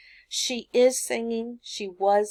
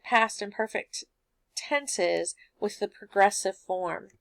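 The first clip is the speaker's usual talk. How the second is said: ordinary talk, nothing marked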